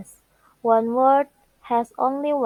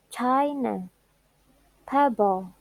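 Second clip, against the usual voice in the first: CHI in China, PEB in Pebble; stress on first syllable. Shown as a demonstration. Teacher listing two-syllable nouns, first syllables stressed. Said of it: "The first stress on four syllables".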